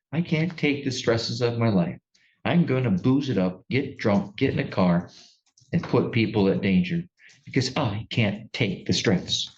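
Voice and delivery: mildly mocking imitation of an excuse; lightly sarcastic, quoting a self-pitying excuse; a little sarcastic. Judge mimics the defendant's excuse to her, a little sarcastic. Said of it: "being a little sarcastic with my tone".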